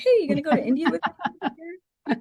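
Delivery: very high, breezy, offhand casual delivery. Retelling how a professor invited a student abroad: imitating a very casual ask. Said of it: "he says it very casually as if".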